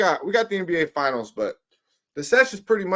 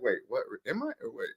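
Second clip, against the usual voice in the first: mock dismayed mutter; 5 semitones lower, 8 dB quieter, faster than usual. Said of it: "you're gonna be like".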